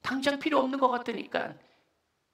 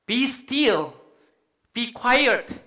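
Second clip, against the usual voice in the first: firm command; 2 semitones higher, 6 dB louder, much slower than usual. Shown as a demonstration. Leads congregation in commanding the storm.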